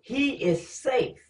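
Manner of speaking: very slow, weighty reading; slow, solemn verse; slow scripture reading. Acted. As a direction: draw out each word.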